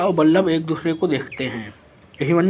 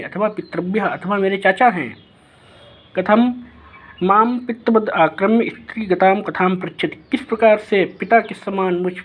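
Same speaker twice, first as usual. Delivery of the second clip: put-on offended young prince; 3 semitones higher than usual. Abhimanyu questioning Brihannala about his mother, lightly voiced offended prince. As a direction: lightly play the boy taking offence at personal questions.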